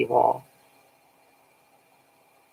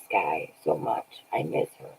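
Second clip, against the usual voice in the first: retold tearful plea; 2 semitones higher, 5 dB quieter than usual. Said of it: "I was just crying in her arms, saying".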